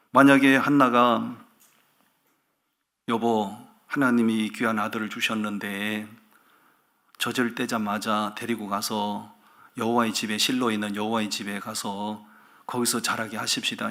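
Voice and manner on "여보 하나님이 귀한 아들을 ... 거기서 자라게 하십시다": soft, low, measured appeal to a husband; gentle wifely request. Acted. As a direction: quietly propose it as a devoted wife. Voicing Hannah pleading with husband. (남편에게 차분하고 나직하게 부탁하듯)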